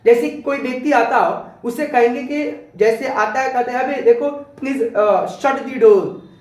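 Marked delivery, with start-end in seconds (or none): 3.8-6.3 rough order. Shown as a demonstration. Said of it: "दोनों में tone के ऊपर डिपेंडेंट है".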